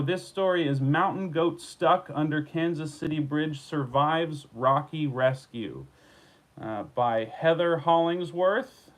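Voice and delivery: measured broadcast read of a headline story; news anchor voice. Shown as a demonstration. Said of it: "my news anchor voice".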